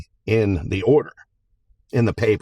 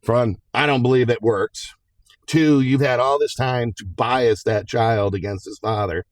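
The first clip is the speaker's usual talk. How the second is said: a hint of a stern judge, higher; imitating the judge; 5 semitones higher than usual. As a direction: lay it out like a firm judge scolding lawyers. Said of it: "judge looked and goes".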